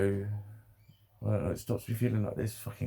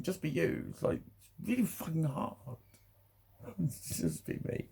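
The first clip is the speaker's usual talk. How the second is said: emotional; 6 semitones higher, 7 dB quieter than usual. Real, not acted. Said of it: "I'm getting emotional again".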